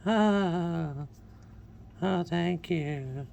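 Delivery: high, slow wheezy falsetto; squeaky dying-rodent falsetto; falsetto female voice. Pretend. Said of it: "Sounds like a dying asthmatic rodent".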